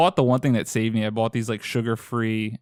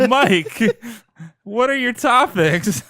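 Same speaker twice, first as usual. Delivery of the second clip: excited; 13 semitones higher, 9 dB louder, much slower than usual. Acted. Host hyped handing over turn.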